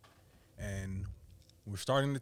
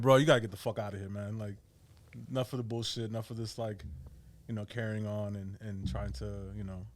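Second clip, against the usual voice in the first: retold lost temper. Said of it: "lost my temper".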